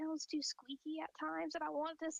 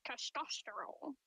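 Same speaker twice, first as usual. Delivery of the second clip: mock guy voice; slower than usual. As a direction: drawl it like a guy pretending. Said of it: "She's like".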